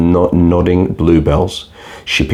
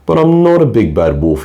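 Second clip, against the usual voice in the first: sweet innocent-sounding lie; sly wolf lying; 5 semitones higher than usual. Acted. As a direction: play the wolf smoothly lying. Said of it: "he lied through his teeth".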